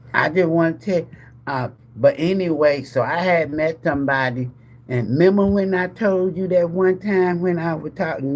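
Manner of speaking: mock rambling excuse, restarting as it goes; stammering confessor, acted. An ex explaining who they had met, acted roundabout excuse. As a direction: play someone circling round a confession. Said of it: "it's gonna be about a child".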